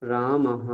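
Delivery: রামহ ending in h plus the echoed vowel; visarga as h. Shown as a demonstration. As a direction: sound the last "ha" of রামহ. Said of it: "উচ্চারণ বললাম". (বিসর্গের হ-কার উচ্চারণ)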